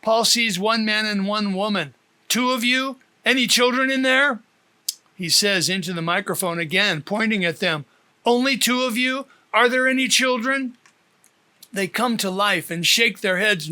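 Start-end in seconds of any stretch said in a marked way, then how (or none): 2.3-4.4 raised, higher urgent questions; asking through the loudspeaker about children; urgent call. Acted. Calling questions into microphone. 8.2-10.8 urgent call. Acted. Repeats question into microphone.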